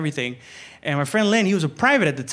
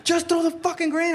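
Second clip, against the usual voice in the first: high-pitched mock impatience; exasperated order; 9 semitones higher than usual. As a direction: play the fed-up soldier insisting. Exasperated order shouted in firefight.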